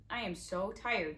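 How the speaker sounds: slow, understated snarl; drawn-out menacing growl; slow mild villain snarl. Acted. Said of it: "Stefano snarled".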